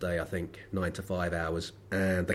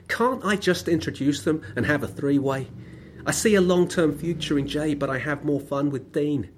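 higher, louder mock of a loud man on his phone; a hammed-up overheard phone call, pitched up and louder; loud phone caller; 7 semitones higher, 6 dB louder than usual. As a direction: play the loud bus passenger on his phone. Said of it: "this is what he was saying, word for word".

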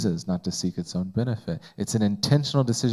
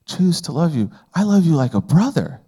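hurt Peter; 8 semitones higher than usual. Retold or imitated. Peter pleads with Jesus, hurt he is asked again, high and hushed. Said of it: "Peter was like".

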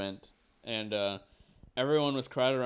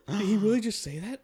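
high mock-shocked voice; hammed-up shocked reaction, pitched high; scandalized onlookers; 9 semitones higher, 4 dB louder than usual. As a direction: imitate a crowd's disbelief.

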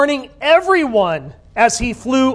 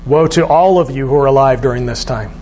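solemn messenger; 8 semitones lower than usual. Acted. Voices the warning messenger.

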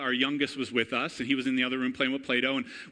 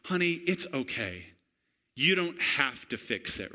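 loving mom. Retold or imitated. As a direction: gently comfort a child. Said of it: "Erica lovingly".

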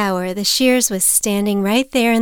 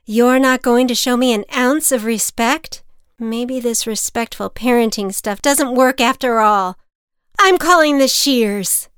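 louder, rising exasperated mother; angry mother; 4 semitones higher, 7 dB louder than usual. A narrator's reading. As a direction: scold the boy, losing patience. Mother angrily threatens son.

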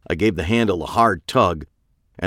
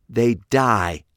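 higher and louder, savouring each murder; Pete, relishing killer; 4 semitones higher, 3 dB louder than usual. A narrator's reading. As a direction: list the killings with sick delight. Pete's blunt verdict.

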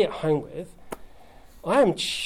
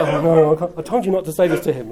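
mortified sons; 6 dB louder than usual. Retold or imitated. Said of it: "You could just like".

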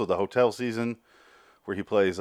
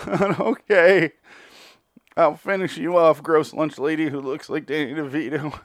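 higher, louder put-on voice, grudging; mock giving in; 6 semitones higher, 4 dB louder than usual. Xavier agreeing to kill the lunch lady, mock grudging. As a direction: give in with a hammed-up sneer. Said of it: "And he's like".

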